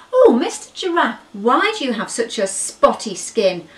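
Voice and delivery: high, loud, polite little calf; eager little elephant calling up; high eager questioning calf; curious baby elephant. Acted. Baby elephant asks giraffe.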